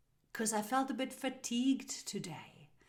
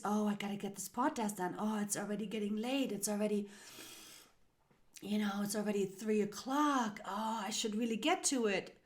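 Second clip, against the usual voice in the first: lightly acted nagging inner voice, hurried; a hint of hurried self-nagging; responsible inner voice; faster than usual. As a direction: imitate your own dutiful thoughts pressing you on. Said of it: "responsible voice".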